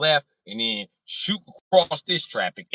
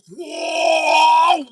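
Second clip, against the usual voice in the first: high loud startled whoa; surprised whoa; 9 dB louder than usual. Retold or imitated. Driver spotting his car outside, high startled shout.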